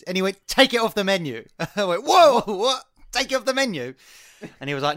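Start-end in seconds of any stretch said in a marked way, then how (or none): 0.5-1.5 firm, slightly louder demand; retold customer demand. 2.0-3.9 high-pitched incredulous question; acted shocked disbelief. Acting out his shocked reply.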